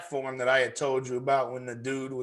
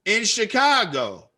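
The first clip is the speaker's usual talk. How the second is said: retold chewing out; 7 semitones higher than usual. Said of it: "I was like".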